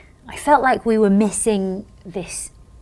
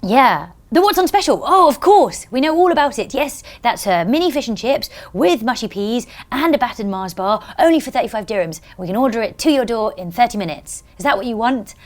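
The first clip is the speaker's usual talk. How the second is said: unfazed phone order-taker; 4 semitones higher, 5 dB louder than usual. Retold or imitated. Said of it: "he didn't even flinch".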